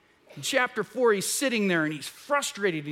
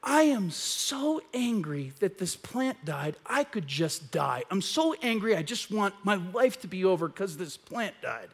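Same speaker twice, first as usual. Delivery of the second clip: sulking Jonah; 3 dB quieter than usual. Retold or imitated. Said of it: "he says to God".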